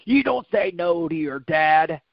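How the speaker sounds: retold angry growl and scolding; angry dad. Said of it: "I got so angry".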